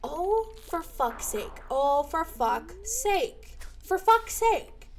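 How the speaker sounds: slow, drawn-out curse rising in pitch; theatrical exasperation. Pretend. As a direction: stretch the curse out dramatically. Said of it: "It's 'cause I'm a theater kid".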